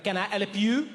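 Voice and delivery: put-on grudging offer of help in a French accent; mildly annoyed, French-accented question, lifted at the end; annoyed shop assistant. French clerk to a customer picking his own clothes, annoyed. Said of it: "an annoyed voice behind me".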